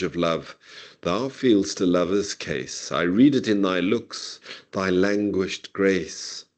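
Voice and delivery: measured, rhythmic sonnet recital; poem reading. Acted. Professor reading sonnet to class, measured recital. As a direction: read the sonnet slowly and with feeling. Reads Sidney sonnet aloud.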